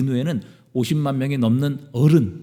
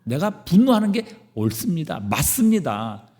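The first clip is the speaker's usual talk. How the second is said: mildly angry, insistent retort; acted stubborn self-justification with a touch of anger. Jonah answers God back, insisting he is right, mildly angry. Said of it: "요나는 분노하며 대답합니다".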